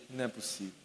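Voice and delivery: low, hushed disbelief; stunned disbelief. Acted. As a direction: say it under your breath, stunned. Reação ao rever aquele homem. (incredulidade em voz baixa, atônito)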